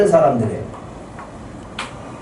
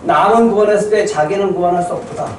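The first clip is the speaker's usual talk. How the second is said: acted jeering; 3 semitones higher than usual. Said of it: "밑에 있는 사람이 이렇게 조롱합니다".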